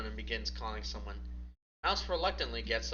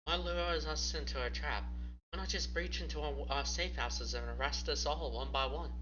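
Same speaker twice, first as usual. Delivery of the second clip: Mouse pitched higher, puzzled; a curious Mouse, voice lightly raised; 4 semitones higher than usual. Acted. Mouse asks Gabriel.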